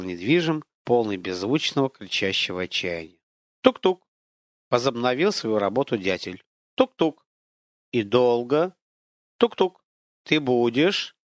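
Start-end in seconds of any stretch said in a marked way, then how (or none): 3.6-4.0 crisp, higher knocking tuk-tuk; woodpecker knock. A narrator's reading. Woodpecker sound imitated. 6.8-7.2 crisp, higher knocking tuk-tuk; woodpecker knock. A narrator's reading. Woodpecker sound imitated. 9.4-9.8 crisp, higher knocking tuk-tuk; woodpecker knock. A narrator's reading. Woodpecker sound imitated.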